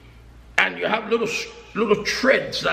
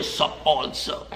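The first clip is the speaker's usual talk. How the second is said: mock copycat greeting; 9 semitones lower, 5 dB quieter, slower than usual. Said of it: "I gonna say".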